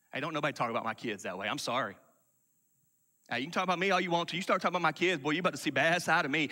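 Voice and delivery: quick, streetwise mock bravado; tough-talking churchgoer. Preacher mimics a proud Christian threatening anyone who insults his kids, mock tough talk. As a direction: rattle it off like a proud hothead defending his kids. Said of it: "Christians talk like that".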